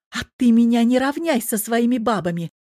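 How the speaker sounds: high, loud offended shout. Acted. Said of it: "ещё громче заорала девчонка".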